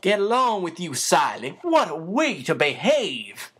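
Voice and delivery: mock scolding, secretly delighted; coy admonishing. Becky coyly scolding her suitor Siley, mock admonishing. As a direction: tut at him playfully. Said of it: "she admonished".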